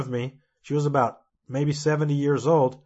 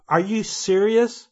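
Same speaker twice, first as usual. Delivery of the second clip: mildly indignant, higher and drawn out; retold anger; 4 semitones higher, slower than usual. Dreamer to professor trying to calm him, mildly angry. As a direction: challenge him in mock disbelief, slightly heated. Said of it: "So I then got angry".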